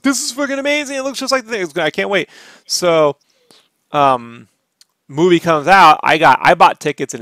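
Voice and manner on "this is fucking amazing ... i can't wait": excited. Retold or imitated. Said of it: "and I was like".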